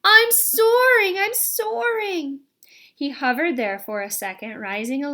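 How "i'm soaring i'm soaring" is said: slow, high, loud cry of joy; joyful shout. A narrator's reading. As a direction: shout it with pure delight. Gosling flies for first time.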